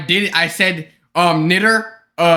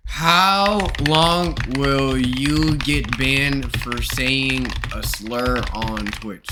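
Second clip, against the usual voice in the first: 1 slow; 3 semitones lower, 3 dB quieter, much slower than usual. Acted.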